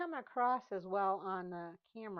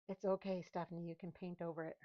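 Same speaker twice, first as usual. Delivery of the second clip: reassuring self-talk; 3 dB quieter than usual. Real, not acted. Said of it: "talking to myself".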